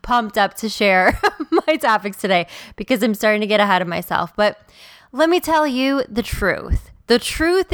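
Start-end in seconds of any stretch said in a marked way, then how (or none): 0.0-2.5 really pumped to share, pitch jumping up; excited. Real, not acted. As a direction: let giddy excitement bubble into a laugh. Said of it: "I'm getting excited. If you can't tell".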